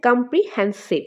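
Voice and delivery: slow কম - প্রি - হ্যান - সিভ; কম্প্রিহেনসিভ slowly, broken at each syllable; stress shown by syllables. Shown as a demonstration. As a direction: sound out কম্প্রিহেনসিভ in separate beats, marking হ্যান. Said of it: "হ্যানের মধ্যে এখানে stress পড়ছে".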